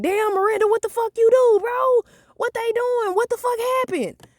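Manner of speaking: high, shocked classmate voices; high mock classmates; gossiping classmates. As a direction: squeal it like nosy teens.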